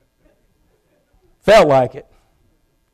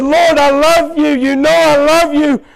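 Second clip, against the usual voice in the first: higher pleading prayer with sudden shouted words; retold tearful prayer; 4 semitones higher than usual. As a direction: cry out to God, unworthy and broken. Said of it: "I wept and I cried".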